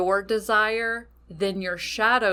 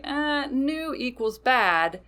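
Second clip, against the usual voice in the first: higher, slow mocking drone; the shadow mocking anything new, slow and higher; dismissive shadow; 5 semitones higher, slower than usual. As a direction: drag it out like a stubborn inner voice. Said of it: "your shadow might be like".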